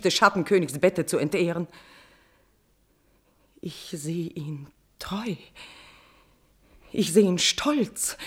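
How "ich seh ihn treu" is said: slow, unvoiced whisper; dreamy whisper. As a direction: whisper it like a vision. Queen dreaming of beloved.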